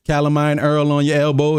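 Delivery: EARL for oil, New Orleans style; Southern pronunciation. Shown as a demonstration. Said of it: "With the southern pronunciation in New Orleans".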